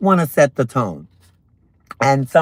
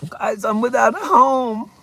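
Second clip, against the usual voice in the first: high mock voice; 8 semitones higher than usual.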